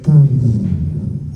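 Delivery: low, long falling boom; slow descending sound effect; imitated power-down noise. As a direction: draw out a mouth-made boom, sinking low.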